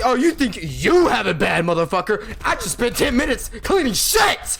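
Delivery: mock indignant retort. Clerk snapping back at the angry customer, mock indignant. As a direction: throw it back at him, half-acted. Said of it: "I'm looking at this guy like".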